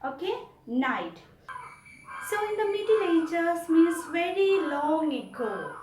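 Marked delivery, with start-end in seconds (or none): 0.7-1.2 "night" repeated with the K left silent. Shown as a demonstration. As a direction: start "night" on a clean N, no K. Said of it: "it is pronounced as night".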